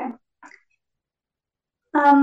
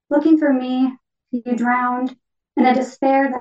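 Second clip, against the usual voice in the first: measured poetry reading in short phrases; poem reading. Acted. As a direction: read it as a poem, pausing after each phrase. Reads own poem as the parakeet.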